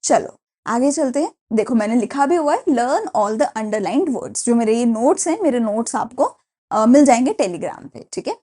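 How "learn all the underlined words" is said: very slow, each word spelled out for notes; slow dictation. Shown as a demonstration. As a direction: read it out slowly so students can copy. Teacher reads instruction from notes. (धीरे-धीरे लिखवाते हुए)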